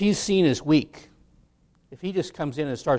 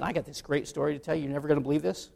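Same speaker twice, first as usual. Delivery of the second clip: teasing hush; 7 dB quieter, faster than usual. Retold or imitated. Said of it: "It's like walking in and saying".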